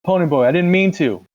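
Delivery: very high, loud desperate scream. Acted. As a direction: scream after the fleeing boy. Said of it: "Derry screamed".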